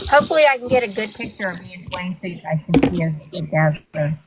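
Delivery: talking through a toothbrush; while brushing teeth. Real, not acted. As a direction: mouth full of toothpaste. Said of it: "Sorry, I'm brushing my teeth".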